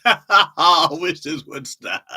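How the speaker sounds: hammed-up cry-laughing; laughing to despair. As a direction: wail through fake helpless laughter. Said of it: "laughing so hard that you're sad about it".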